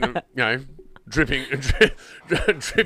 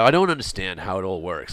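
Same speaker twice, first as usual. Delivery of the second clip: put-on low-pitched American accent; 6 semitones lower than usual. Describing how American friends react to football, American accent impression. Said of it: "That's a good accent".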